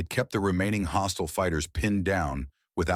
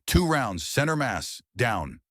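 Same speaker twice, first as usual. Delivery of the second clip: terse combat call; 6 semitones higher, slower than usual. Acted. Soldier calling kills in combat.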